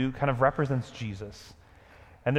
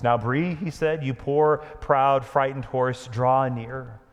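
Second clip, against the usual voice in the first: louder, slow and commanding; 2 semitones higher, 5 dB louder than usual. Acted. Aslan summoning the frightened horse Bree, commanding. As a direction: call him near with grave authority. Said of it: "spoke in a louder voice".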